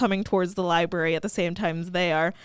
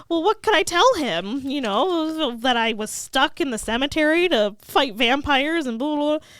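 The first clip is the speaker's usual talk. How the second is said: higher-pitched exasperated mock rant; 5 semitones higher than usual. Buffy venting to Xander about slaying, mock exasperated rant. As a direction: reel off excuses, lightly worked up. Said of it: "She's going on a rant".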